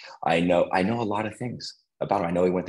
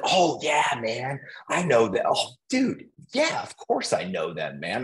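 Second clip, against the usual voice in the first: higher, chummy laid-back dude voice; imitating buddy; 5 semitones higher than usual. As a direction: play the easygoing landscaper pal. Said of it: "that's how he talks".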